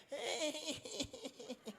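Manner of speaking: string of wordless chuckles after a joke; laugh. Real, not acted. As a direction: laugh it out in short pulses. Laughs after his acted challenge.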